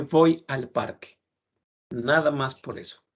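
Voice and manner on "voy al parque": "voy al parque" said slowly, each sound clear; slow model phrase. Shown as a demonstration. Teacher models "voy al parque" slowly for students. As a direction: spell out "voy al parque" for the class. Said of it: "es más difícil decir voy a el parque que decir".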